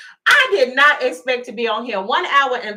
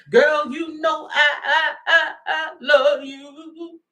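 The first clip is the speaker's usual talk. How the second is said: drawn-out stammering "I love you"; mock stuttering lover; slower than usual. Reader mocking the ex's stammered slow love plea.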